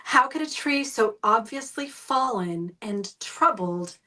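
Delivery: slow, mock-solemn quote of a speaker; imitated pitying tone. Quoting a church talk about the fallen willow, pitying tone. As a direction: recite it slowly, as if pitying something pitiful. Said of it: "the tone of his voice as he described this poor, pitiful".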